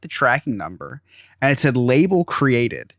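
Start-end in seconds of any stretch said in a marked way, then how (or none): 1.8-2.9 "label created." read out slowly, word by word; slow deadpan read. Retold or imitated. Reading the tracking status to friends, slow and deadpan.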